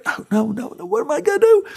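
a nervous actor freaking out before his entrance; mock panic.

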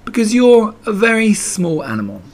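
high-pitched, mild reassurance; encouraging. A narrator's reading. Pooh comforting frightened Piglet, encouraging. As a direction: offer it brightly as comfort. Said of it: "said Pooh encouragingly".

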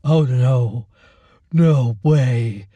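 lightly voiced mocking orderly; gloating refusal. A narrator's reading. Orderly refusing Lacey's plea, gloating. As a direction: toy with her. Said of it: "he laughed".

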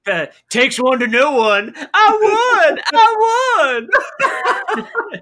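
high, loud impression building to a shriek; Briscoe. Co-host imitates old wrestler gloating over the title, climbing to a shriek. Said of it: "Briscoe's like".

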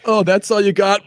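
high-pitched comic celebrity impression; Ray Romano. Host answers a punch with an impression, high mock taunt. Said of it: "do an immediate Ray Romano impression".

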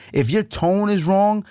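slow, high stress on "your tone". Shown as a demonstration. Coaching husbands, stressing the tone. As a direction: lean on "your" and "tone", drawn out. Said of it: "your tone is going".

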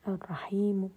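الرحيم said softly, final vowel only a third heard. Shown as a demonstration. Teacher lowering voice on الرحيم to show rawm. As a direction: drop the voice on الرحيم and keep a trace of the final u. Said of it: "لاحظوا أني خفضت الصوت".

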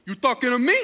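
jokingly challenging, "me" pushed up; mock confrontational. Pastor joking at stranger calling him, mock challenge. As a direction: play at squaring up to him. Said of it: "I didn't say that like that".

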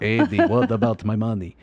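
low horror-actor impression; Bela Lugosi. Imitating the actor asking about money, low Lugosi voice. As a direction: pitch it down, old movie vampire accent. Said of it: "Ed Wood voice of Bela Lugosi".

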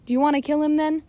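high, loud bellow. Acted. Stash threatening the mollusks on the beach, high loud bellow. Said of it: "bellowed Stash".

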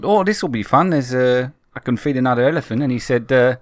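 a hint of a South African accent in a retold thought; lightly put-on South African accent, half-hearted. Recalling the elephant moment in a mild South African accent. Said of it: "struggling to maintain this, terrible, probably quite racist accent".

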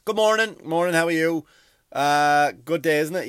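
chirpy lollipop lady saying hello; cheery crossing guard. Retold or imitated. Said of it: "she comes over".

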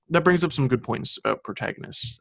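formal presenter tone; announcer voice. Acted. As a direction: put on a radio host voice. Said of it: "You started talking a little differently".

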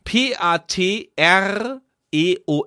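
letters spelled slowly one by one; spelling it out. Shown as a demonstration. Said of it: "ich buchstabiere das nochmal".

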